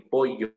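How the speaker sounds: "pollo" said with the traditional double-L sound; Castilian double L in "pollo". Shown as a demonstration. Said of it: "es la forma con doble L".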